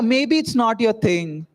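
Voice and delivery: slow, drawn-out imitation of dad; a light mock of a patronising father. Son parodying his father's slow words to audience. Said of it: "that's how he spoke to me".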